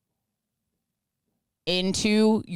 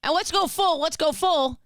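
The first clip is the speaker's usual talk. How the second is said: excited; 8 semitones higher than usual. Real, not acted. Joking dark name idea.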